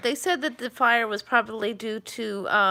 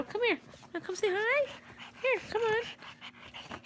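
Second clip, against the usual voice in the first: much higher and softer, slow coaxing coo; 12 semitones higher, 8 dB quieter, slower than usual. Real, not acted. Owner coaxes her dog Frankie to say hi, high soft coo. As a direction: coax the puppy gently, stretched out.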